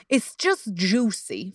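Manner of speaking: slow, savoring drawl on juicy. Shown as a demonstration. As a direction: linger over it like something delicious. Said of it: "Like, it's just juicy".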